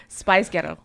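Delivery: Scottish-sounding "Spice Ghetto"; mock Scottish accent. Shown as a demonstration. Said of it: "how Scottish people sound".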